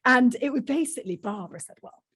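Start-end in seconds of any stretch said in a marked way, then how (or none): 1.8-2.0 lightly voiced Yorkshire woman; Yorkshire accent. Interviewee quoting Barbara, light Yorkshire accent. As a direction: put on a mild Yorkshire accent. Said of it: "forgive me for doing a Yorkshire accent".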